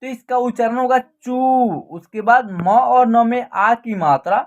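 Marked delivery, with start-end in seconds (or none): 1.0-1.4 चू with the ū held long; long vowel. Shown as a demonstration. Teacher sounding out the first syllable चू, long ū. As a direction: stretch the vowel in चू. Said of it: "बड़ी ऊ की मात्रा है".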